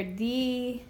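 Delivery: dia said as two syllables di-a; split dia. Shown as a demonstration. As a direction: break dia into di-a. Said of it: "I wanna break 'em apart".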